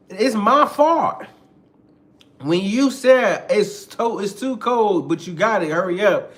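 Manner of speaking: loud, high, drawn-out disbelief; indignant. Acted. Man blamed for partner dropping the box, indignant. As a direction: stretch the key words in outrage.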